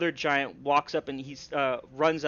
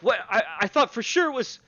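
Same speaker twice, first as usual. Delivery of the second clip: confused guards; 7 semitones higher, 6 dB louder than usual. Acted. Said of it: "they're like".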